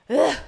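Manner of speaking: exhausted "ugh"; weary groan. Real, not acted. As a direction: let out a short, fed-up groan. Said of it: "I'm exhausted".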